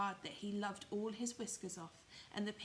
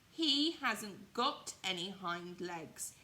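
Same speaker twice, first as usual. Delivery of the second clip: calling out; 6 dB louder, much slower than usual. Acted. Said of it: "he called out".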